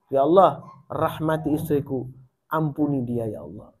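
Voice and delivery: gentle late-night prayer said softly; moderate night prayer. Retold or imitated. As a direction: pray half aloud so the sleeping wife barely hears. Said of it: "Sengaja agak sedikit keras".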